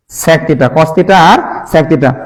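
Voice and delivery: slow, even cos theta and sec theta; slow recap. Shown as a demonstration. Teacher recapping pair slowly for students. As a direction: space each word out. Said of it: "slow recap".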